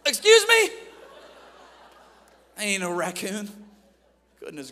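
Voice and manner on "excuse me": high, loud mock-shocked outburst. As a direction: blurt it out in loud disbelief. Shocked reply to raccoon offer.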